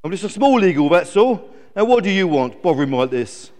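loud, defensive eagle character; lightly voiced huffy eagle; grumpy eagle. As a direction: snap back, then grumble.

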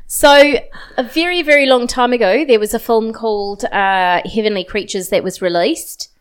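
badly put-on New Zealand vowels; terrible New Zealand accent. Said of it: "That was terrible. I sounded like".

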